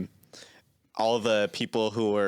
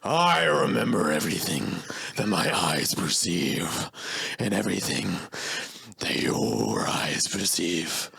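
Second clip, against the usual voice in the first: impression of a famous singer; 2 semitones lower than usual. Acted. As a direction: cry out your name, then intone it slowly and grandly. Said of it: "do the really good Ringo Starr impression".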